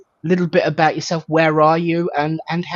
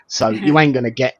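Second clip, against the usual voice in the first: jokey estuary English, dropped T's; estuary english accent. Pretend. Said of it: "for dropping my T's".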